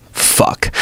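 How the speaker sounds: soft unvoiced little swear; tiny child curse on a plane; toddler curse. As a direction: hush it like a three-year-old. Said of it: "he says".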